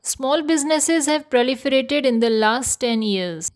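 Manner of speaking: very slow, careful teacher reading; slow example sentence. Shown as a demonstration. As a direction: read it out slowly for learners.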